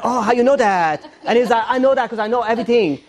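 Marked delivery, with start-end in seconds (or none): 0.0-1.0 put-on higher-pitched borrowed Asian accent. Husband answering the caricaturist in kind, Asian accent. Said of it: "I sort of respond to an accent". 1.7-3.0 higher imitated Asian accent. Caricaturist telling husband how he knows, Asian accent. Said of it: "When people talk to me in accent".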